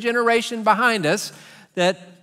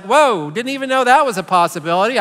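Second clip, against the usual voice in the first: put-on louder, wide-eyed child's alarm; mock startled child; 3 semitones higher, 6 dB louder than usual. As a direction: play a four-year-old, suddenly worried. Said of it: "the four-year-old is like".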